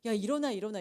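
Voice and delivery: loud urgent call to a sleeper; shouting wake up. Acted. A shipmate yells at the one asleep during the storm, loud urgent call. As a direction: shake him awake with your voice.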